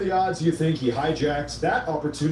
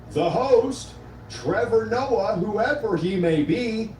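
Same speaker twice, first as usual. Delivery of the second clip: reading Trump's post; 3 semitones higher than usual. Retold or imitated. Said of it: "and I quote".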